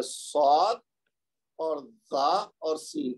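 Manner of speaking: very slow, careful articulation; slow letter demo. Shown as a demonstration. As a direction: drag out each sound for learners. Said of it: "کون کون سے ہیں".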